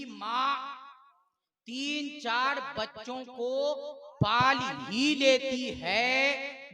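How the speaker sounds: slow, drawn-out moral pronouncement; preaching declamation. Real, not acted. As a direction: stretch the phrases out, building to a loud close.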